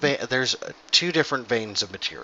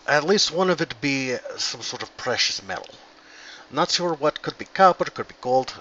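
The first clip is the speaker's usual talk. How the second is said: put-on Scottish dwarf accent; 3 semitones higher than usual. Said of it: "I don't know why Scottish turned to Russian".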